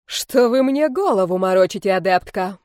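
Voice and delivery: disbelieving. Acted. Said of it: "не поверила Ирма Кармировна".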